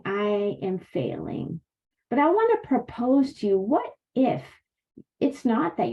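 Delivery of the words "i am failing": slow, discouraged. Retold or imitated. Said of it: "You might be thinking".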